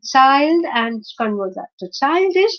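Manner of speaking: put-on childish with the weight on its opening CHILD; stress on first syllable. Shown as a demonstration. Teacher showing suffix keeps stress, CHILD stressed in childish. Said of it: "again the stress is on C".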